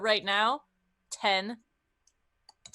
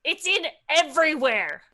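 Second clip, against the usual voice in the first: acted distress; 5 semitones higher, 4 dB louder than usual. Gwen complains about the muck.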